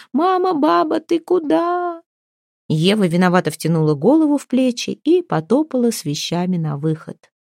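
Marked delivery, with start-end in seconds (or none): 0.1-2.0 put-on high, slow, drawn-out childish wail; hammed-up theatrical cry of a child; melodramatic wail. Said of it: "Оля заорала, как в какой-нибудь мелодраме". (мелодраматичный детский вопль, высоко и протяжно)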